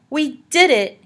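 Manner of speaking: high, loud burst of relief; can't believe it worked; excited. A narrator's reading. Morton realises they escaped, excited.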